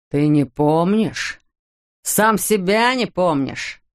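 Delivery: slow, mocking menace; a hint of a sneering father; menacing mockery. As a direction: drag it out to taunt the boy. Father mocks son menacingly.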